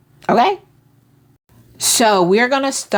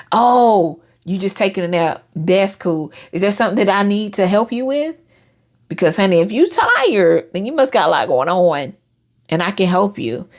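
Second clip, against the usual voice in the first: sincere, understanding. Retold or imitated. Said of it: "And mean it".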